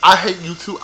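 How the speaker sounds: ordinary delivery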